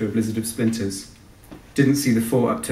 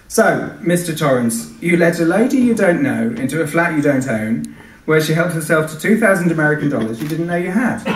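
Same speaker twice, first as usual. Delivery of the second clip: deliberate policeman; 5 semitones higher, 4 dB louder than usual. Acted. Policeman lecturing Tony, deliberate and patronising. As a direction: talk down to him like a kindergarten teacher. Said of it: "His voice was deliberate".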